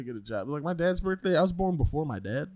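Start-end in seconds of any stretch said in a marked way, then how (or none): 0.0-0.5 mild dad impression. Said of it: "he can say".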